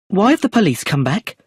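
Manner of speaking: high, anxious question; nervously. A narrator's reading. Brenda nervously watching the police arrive, pitched high. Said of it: "said Brenda nervously".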